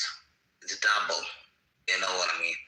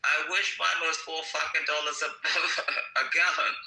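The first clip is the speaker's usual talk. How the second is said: laughing retort; 5 semitones higher than usual. Retold or imitated. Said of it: "I'm just like".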